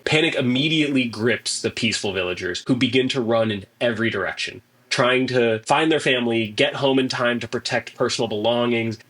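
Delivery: measured dramatic narration; game master's scene setting. Acted. Game master describes the village collapsing in flames, dramatic narration. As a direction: narrate the unfolding disaster with deliberate emphasis.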